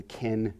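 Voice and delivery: ken slowly, set apart as its own syllable. Shown as a demonstration. Teacher showing the emphasized part, ken said slowly and separately. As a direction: sound out ken as the stressed middle syllable. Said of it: "the ken is the part that would be".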